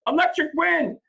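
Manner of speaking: loud, high victory cry; triumphant shout. A narrator's reading. Boy shouting to the unbelievers in triumph. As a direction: proclaim it to the doubters. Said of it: "I shouted".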